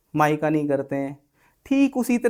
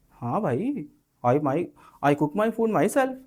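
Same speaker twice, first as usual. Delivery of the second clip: gentle reply; 3 dB quieter, much slower than usual. Shown as a demonstration. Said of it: "अगर किसी से प्यार से बात करनी है".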